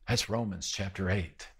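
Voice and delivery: ordinary delivery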